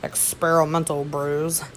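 mock-quote "experimental brews" with a wink; finger quotes. Shown as a demonstration. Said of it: "I'm doing those finger quotations".

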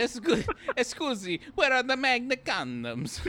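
high, loud, over-proper request; mock polite customer. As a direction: ask it in a hammed-up polite voice.

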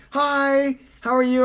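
high-pitched, chirpy imitation of a girlfriend; cheery greeting. Imitating girlfriend on the birthday call, cheery. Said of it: "now Inga's like".

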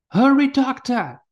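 slow, high, loud urging call; urgent call. Acted. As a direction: urge him up, fast. Urging doctor, danger near.

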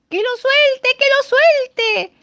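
high, loud drawn-out chant; others shouting. A narrator's reading. The other birds keep yelling at the eaglet, slow loud shout. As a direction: yell it slowly and hard. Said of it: "seguían gritando los otros".

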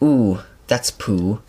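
slow, unbothered ooh that's poo; mild mock calm. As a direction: shrug it off slowly. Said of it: "it says it so calmly".

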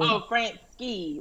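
"Frank Ski" said slowly as two words; two separate words. Shown as a demonstration. Checking the DJ's name with co-hosts, "Frank Ski" as two words. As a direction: say "Frank Ski" with Ski as its own word. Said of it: "like Frank and then Ski".

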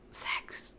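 whispered, unvoiced aside. Real, not acted. Telling viewers the spicy part in a whisper. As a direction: drop to a secret whisper. Hushed aside about a steamy scene.

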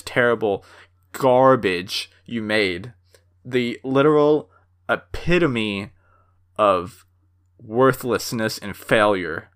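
slow, scornful put-down; a hint of fuming contempt; heated contempt. Real, not acted. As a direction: drag the words out in disgust. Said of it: "I'm so heated up about this".

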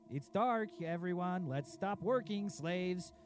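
loud, mocking the lazy workers; mocking shout. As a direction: yell the workers' excuse, scornful.

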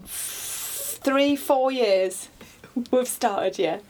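put-on plummy, posh English accent. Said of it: "you don't have to do a posh voice".

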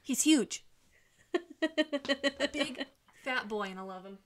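far from the microphone; stepped back from the mic; turned away from mic. Real, not acted. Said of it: "allow me to back away from the microphone".

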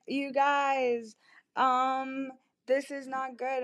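retold nervous heads-up, voice lifted; uneasy warning. Drunk woman alerting her friends at the bar, uneasy warning.

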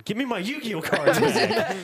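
high, loud, drawn-out comic demand; whine-yell it like an absurd grievance; mock outburst. Acted irrational outburst to derail argument.

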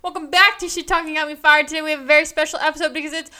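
loud, high radio host intro. Pretend. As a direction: boom it out like a DJ. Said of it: "did it sound like a radio voice".

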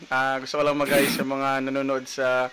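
sluggish hungover voice. Real, not acted. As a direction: talk like you're still hungover. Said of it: "Sorry, medyo may hangover pa".

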